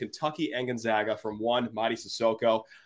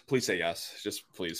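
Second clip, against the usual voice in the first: mock pleading; 7 semitones lower, 7 dB quieter, slower than usual. Begging co-host to approve ad.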